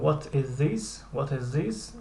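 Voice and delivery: very slow, careful question; slow model question. Shown as a demonstration. Teacher drills the question slowly for students. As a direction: stretch each word for learners. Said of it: "teacher models question".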